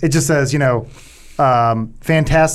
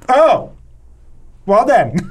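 high startled put-on voice; mock flustered wizard; 7 semitones higher, 3 dB louder, slower than usual. Retelling a film scene, high flustered mock reply. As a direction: act caught off guard, hammed up. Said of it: "And then he went".

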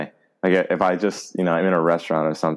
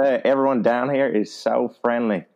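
put-on South Carolina accent; 4 semitones higher than usual. Praising friendly locals to a friend, South Carolina accent. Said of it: "in a South Carolina accent".

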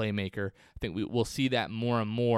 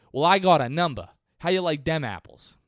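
put-on loud, higher Boston accent punchline; triumphant Boston accent movie line; gloating Boston accent; 5 semitones higher, 7 dB louder than usual. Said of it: "my Boston accent is a little bit better, but I just butchered that".

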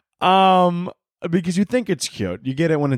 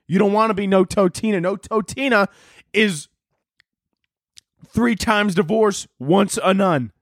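mock menacing shout; 4 semitones higher than usual. Dad threatening the kid.

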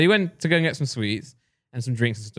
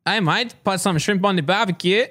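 slow, hammed-up Australian accent; 3 semitones higher than usual. Asked by podcast mates for an impression, Australian accent. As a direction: put on your best Australian accent. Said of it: "your best Australian accent".

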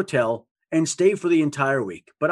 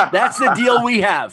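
laughing; 7 semitones higher, 5 dB louder than usual. Real, not acted. Jokey deal over the tweet.

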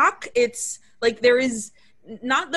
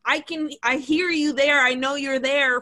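a bit higher, imitating an angry shout; mock yelling; 4 semitones higher than usual. Husband at the intercom, retold with a mild mock yell. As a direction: hammer the point, mock-angry. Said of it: "He's just screaming".

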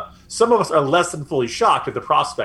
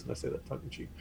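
whispered aside; 20 dB quieter, much faster than usual. Real, not acted. Whispered aside in political commentary.

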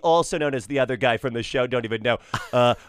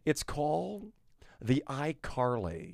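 light Tim Cook impression. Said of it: "Tim, as in Tim Cook".

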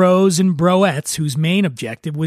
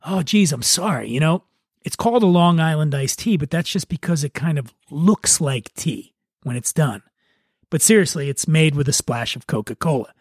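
friendly, apologetic explaining; smiling apology. Retold or imitated. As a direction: soothe the angry guest. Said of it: "smiling and apologizing".

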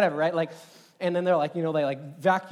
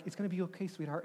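soft, raised, soothing voice; reassuring; 4 semitones higher, 6 dB quieter than usual. Retold or imitated. Husband keeping it up for his wife, acted soft reassurance. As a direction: gently keep up a brave front. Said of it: "keep it up for her".

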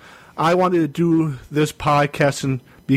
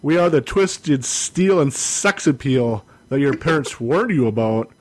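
show intro. Acted.

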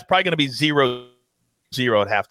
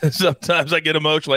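laughing. Real, not acted.

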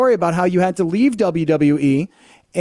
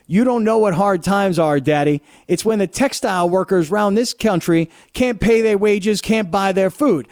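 Dusty Rhodes impression. Host quoting Dusty Rhodes' famous promo, lightly imitated. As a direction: quote Dusty's hard times promo with mild swagger. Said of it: "I watch Dusty Rhodes' Hard Times".

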